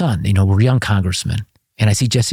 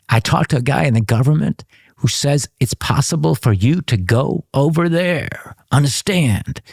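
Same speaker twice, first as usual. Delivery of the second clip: higher, slow and drawn-out, with a mock-secretive hint; talking in code; 6 semitones higher, slower than usual. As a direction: spell it out slowly like a secret message over the phone. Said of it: "Talk to me in code".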